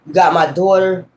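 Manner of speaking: measured threat in short, separate phrases; ruthless movie father. Retold or imitated. Father telling the man who got his daughter, understated ruthless warning. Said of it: "he ruthless as hell".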